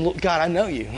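calm, trusting address; mildly voiced confident appeal; intimate appeal. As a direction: reason with God as someone known well. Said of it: "You hear the difference in the tone of voice".

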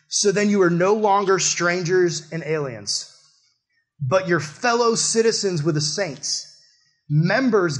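slow, measured Bible reading; scripture reading. Acted. Pastor reading Ephesians to the congregation, slow and measured. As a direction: read the verse out with weight.

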